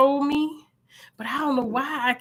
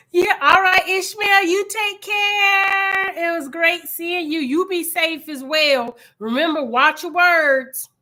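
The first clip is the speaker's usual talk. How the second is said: higher, louder cheerful goodbye; bright sign-off; 6 semitones higher, 4 dB louder, slower than usual. Real, not acted. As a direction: lift it up for a friendly farewell. Signing off to a viewer.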